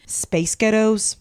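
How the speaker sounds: slow mock-American "Space ghettos"; American accent. Shown as a demonstration. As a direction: stretch it out with American vowels. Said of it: "space ghettos in an American accent".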